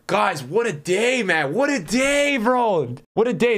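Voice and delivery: giddy what a day; excited cheer. Real, not acted. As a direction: celebrate the lucky pull. Thrilled by a great pack pull.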